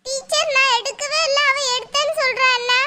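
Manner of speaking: put-on high-pitched indignant kid; protesting child. Pupil denies taking chocolate to the teacher, protesting child voice.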